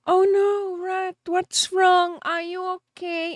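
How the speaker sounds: a hint of a worried friend checking in; lightly voiced friend asking if she's okay; mock concerned friend. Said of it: "and then they're like".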